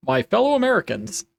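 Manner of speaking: a hint of presidential address; Obama. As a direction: lightly imitate a president opening a speech. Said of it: "I sound just like Obama when I do that".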